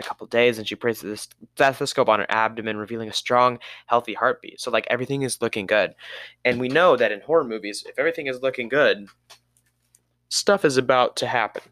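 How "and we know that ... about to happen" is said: talking with the hiccups; speaking through hiccups. Real, not acted. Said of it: "Sorry, I got the hiccups now".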